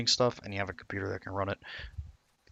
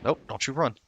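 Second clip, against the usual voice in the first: movie quote; 5 semitones higher than usual. Acted. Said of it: "That is a reference to a ancient movie".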